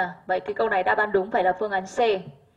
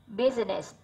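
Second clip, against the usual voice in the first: business stressed on "bus"; first-syllable stress; 6 dB quieter, slower than usual. Shown as a demonstration. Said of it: "âm một". (nhấn âm tiết đầu của business)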